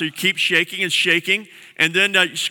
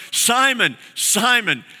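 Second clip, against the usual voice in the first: earnest loving plea. Retold or imitated. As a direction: plead with a close friend to listen. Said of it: "he's looking at them going".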